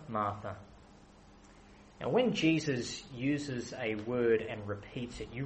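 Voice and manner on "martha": soft, low second "Martha"; gently, almost to herself; compassionate. Acted. Jesus calling Martha, soft and caring. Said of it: "but care and compassion".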